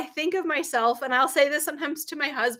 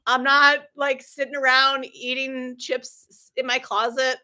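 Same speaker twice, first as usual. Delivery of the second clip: drip with sarcasm as if he forgot; sarcastic; 2 semitones higher than usual. Retold or imitated. Answering husband who asked what she was doing upstairs, sarcastic and mock-incredulous. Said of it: "I was being very sarcastic".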